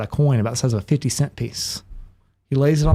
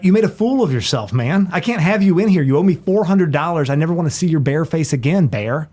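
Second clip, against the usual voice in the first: exasperated, slightly raised telling-off; acted scolding; 2 semitones higher than usual. Bartender telling the bear he can't come in, acted scolding. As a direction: throw out a troublesome regular.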